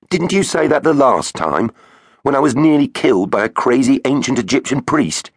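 put-on boy voice. Finn accusing Superloo.

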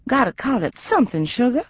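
lightly voiced aunt, coaxing gently; gentle southern drawl. Aunt soothing her hurt niece, a gentle southern drawl. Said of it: "Gwen said gently".

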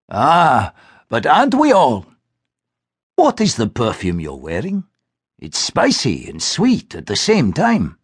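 a hint of a genial old gentleman; an old man teasing kindly; lightly voiced old man. Mr Cameron voiced.

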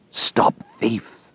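hushed accusing whisper; whispered cry. Acted. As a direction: ghostly whisper. Boards calling after fleeing boy.

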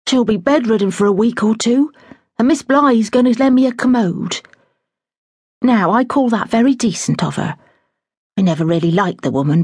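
lightly voiced flustered housekeeper; a hint of a fussing older woman in a fluster; fretful housekeeper. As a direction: housekeeper resolving to fetch her mother, flustered.

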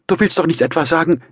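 high, loud, frightened mother; startled, high-pitched disbelief; alarmed. A narrator's reading. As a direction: protest in rising alarm. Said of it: "fing Pulcheria Alexandrowna erschrocken an".

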